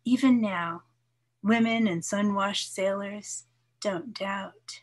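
measured, lightly lilting poem reading; poetry reading. Acted. Poet reads her poem to listeners, measured recital voice. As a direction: read it like a poet sharing her work, unhurried.

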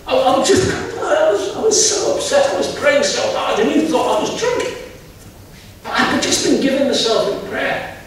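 a distressed woman, close to crying; upset pleading. Retold or imitated. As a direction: plead through tears, voice climbing. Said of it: "that's why I'm crying like this".

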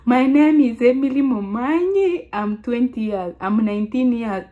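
lightly imitated old speaking voice; former way of speaking. Shown as a demonstration. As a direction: start high in a put-on introduction. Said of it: "This is how I was speaking".

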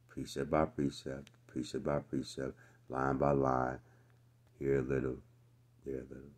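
put-on quiet singsong baby chant; hushed childish recitation; mocking nursery rhyme. Shown as a demonstration. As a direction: croon it like a lullaby to a toddler. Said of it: "We get treated like babies".

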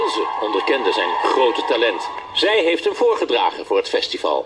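licht aangezette voice-over van een portret. A narrator's reading. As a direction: lees het voor als commentaar bij een filmpje. (voice-over voor een muzikaal portret)

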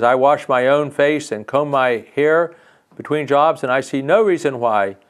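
stern bumblebee. Acted. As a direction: scold like a stern bee. Bumblebee voiced scolding fairy.

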